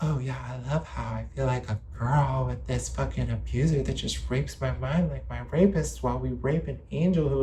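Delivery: lightly put-on mocking voice; mocking quote. Voicing the abused partner's supposed words, lightly acted mockery. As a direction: mimic them with light scorn. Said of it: "And then they're like".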